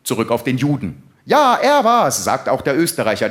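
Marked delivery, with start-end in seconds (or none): 1.2-2.2 loud, high, eager accusation; accusing shout. Acted. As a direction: pile on and blame him. Second accuser joins the blame. (laut beipflichtende Anschuldigung)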